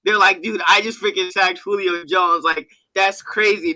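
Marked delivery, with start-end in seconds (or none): 0.4-2.4 mock excited player. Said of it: "you see anybody else doing that".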